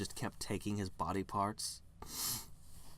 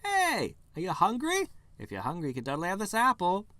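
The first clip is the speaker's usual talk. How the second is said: eager tree voice; 9 semitones higher, 6 dB louder than usual. Acted.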